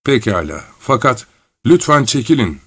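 lightly muffled, murmured plea; mildly stifled acted voice. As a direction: mutter a weary request. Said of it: "Boğuk bir sesle".

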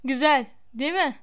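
understated, unruffled smugness; coolly composed; calm. A narrator's reading. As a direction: say it calmly, as the character. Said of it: "Malfoy sakin sakin".

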